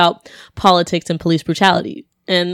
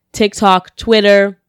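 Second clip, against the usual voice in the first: ordinary talk, nothing marked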